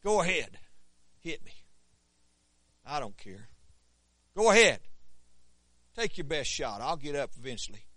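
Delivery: low, gritted-teeth defiance; through clenched teeth. Retold or imitated. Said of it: "through clenched teeth and said".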